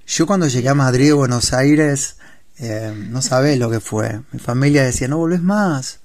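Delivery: put-on Spanish guest putting on an Argentine accent; playful porteño voseo; mock Argentine. Guest joking with the host in a mock Argentine accent. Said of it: "hablamos tú y yo argentino".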